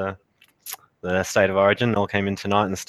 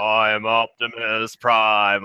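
slow, mock-solemn imitation of a bad Prime; bad Optimus Prime; much slower than usual. Friend mocking the cinema's awful Optimus Prime. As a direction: lightly mimic a terrible Prime voice. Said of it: "That was the worst Prime ever".

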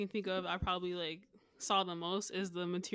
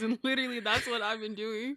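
excited disbelief. Real, not acted. Excited shock at shared habit.

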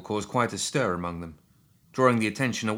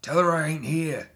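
higher-pitched, urgent hushed cry; 8 semitones higher, 4 dB louder than usual. A narrator's reading. Edwin hiding in the tent, begging, hushed higher cry. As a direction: plead to be hidden, urgently. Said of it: "A hushed cry of".

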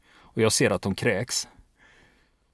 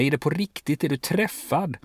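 higher, urgent calling; calling out to her; 5 semitones higher than usual. Retold or imitated. Soldier calls out to the wounded woman, higher and urgent. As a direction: pitch it up as if calling to someone hurt. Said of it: "ropa på henne".

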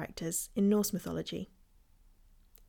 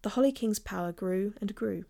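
grave ancient myth telling. A narrator's reading. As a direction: tell it like an old legend by firelight. Narrates the Oak and Holly myth.

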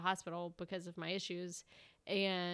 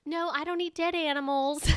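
blunt retort; 8 semitones higher, 7 dB louder than usual. Retold or imitated. Blunt reply to old lady.

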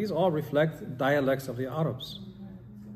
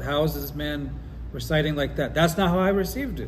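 upset; 3 semitones higher, 3 dB louder than usual. Retold or imitated. Retelling an upset companion hearing a different recitation, mildly indignant. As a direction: voice his mild upset, pushing the last part harder. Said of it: "he gets upset".

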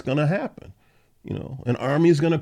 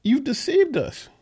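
pleading; 10 semitones higher than usual. Acted. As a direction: beg the Lord as if betrayed. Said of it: "Jeremiah is pleading with the Lord".

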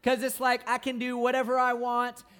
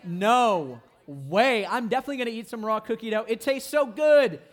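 mock defiant glee; 6 dB louder than usual. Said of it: "that's a rule that we're like".

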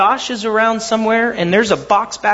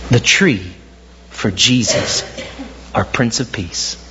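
solemn story ending; 3 semitones lower than usual. A narrator's reading. Story ending, reverent reading.

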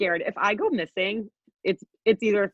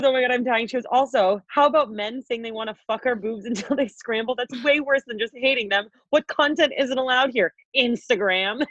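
higher-pitched retold outrage; flipping out; 4 semitones higher than usual. Reading out a friend's messages about banned content, flipping out. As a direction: imitate an indignant friend on a rant. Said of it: "flipping out".

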